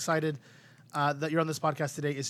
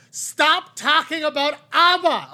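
high, loud and slow yell; 10 semitones higher, 6 dB louder, slower than usual. Retold or imitated. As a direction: shout it out in exasperation. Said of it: "I've literally yelled out".

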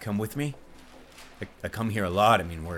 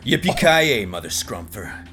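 action hero catchphrase; 6 dB louder than usual. Acted.

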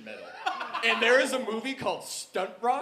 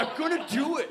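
higher, laughing mock vow; 8 semitones higher than usual. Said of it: "He's like".

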